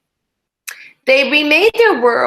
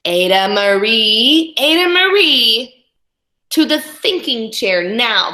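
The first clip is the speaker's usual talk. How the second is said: scolding parent; 3 dB louder than usual. Acted. Parents scold their daughter.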